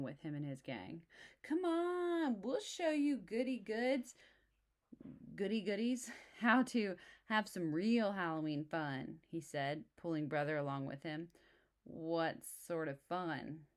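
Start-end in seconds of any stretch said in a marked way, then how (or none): 1.4-9.2 put-on high, loud taunting teen; bully voice. Too Tall taunts brother, high and loud mocking bully. 11.8-13.7 wary. Acted. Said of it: "asked brother warily".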